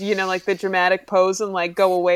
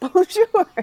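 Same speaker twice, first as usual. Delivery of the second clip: high, sing-song voice on Bonjour. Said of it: "like we're the opening of Beauty and the Beast".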